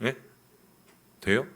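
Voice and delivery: normal talking voice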